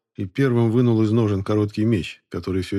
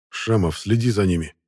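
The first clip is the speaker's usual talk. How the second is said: through gritted teeth. Acted. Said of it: "сквозь зубы сказал Денис".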